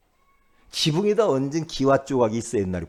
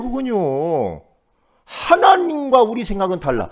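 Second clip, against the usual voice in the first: ordinary talk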